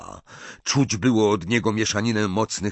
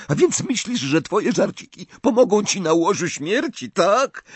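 much higher, shrill-pitched taunt; mock him as a nervous witch; sneering witch; 11 semitones higher, 3 dB louder than usual. A narrator's reading. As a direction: Alecto jeering at dying Dumbledore. Nervous woman Death Eater.

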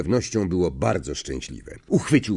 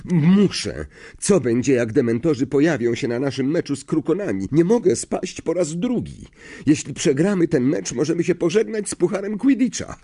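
insistent; 6 semitones higher than usual. Acted. Harry insists heatedly.

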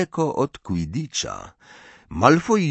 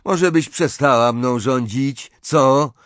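irritated; 5 semitones higher, 5 dB louder, slower than usual. A narrator's reading. Ron snaps back at Hermione.

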